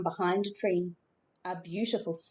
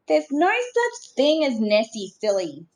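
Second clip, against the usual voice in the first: higher, louder know-it-all sister; bossy big sister; 5 semitones higher, 5 dB louder than usual. A narrator's reading. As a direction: tease the little brother loudly. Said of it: "said Finlay's big sister".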